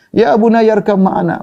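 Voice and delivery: slow, tender calling to his son; gentle call. Acted. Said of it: "dia panggil yang ada kata-kata lembut". (Nuh memanggil anaknya dengan lembut dan pelan)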